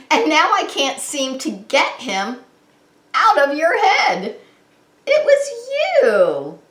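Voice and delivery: rising to a high, loud "It was you"; surprised realization. Acted. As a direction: let it climb into a delighted discovery. Mac realises the worm is real.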